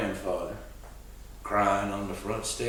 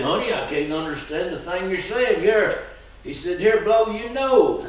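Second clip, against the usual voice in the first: lightly voiced kindly old man; 7 semitones higher, 5 dB louder than usual. Old man comforting crying boy.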